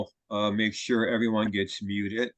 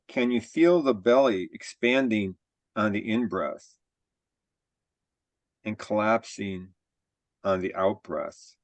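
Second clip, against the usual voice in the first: measured body-scan guidance with long pauses; guided meditation. Real, not acted. Teacher leading a group body scan, calm guided-meditation delivery. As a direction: guide them calmly, phrase by phrase, leaving room to breathe.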